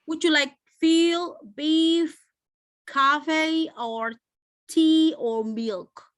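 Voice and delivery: feel, beef, coffee held high, milk dropping; slow spaced list, high items then a fall on 'milk'; rising list, falling end. Shown as a demonstration. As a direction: keep each option up until milk closes it downward. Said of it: "end it with a down intonation".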